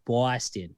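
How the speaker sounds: Boston as Bawston, open aw; Boston accent. Shown as a demonstration. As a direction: say Boston like Baw-ston. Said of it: "it's B A W".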